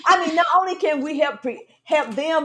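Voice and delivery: words squeezed out through giggles; fighting off laughter; laughing. Real, not acted. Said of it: "Try to get a straight face here".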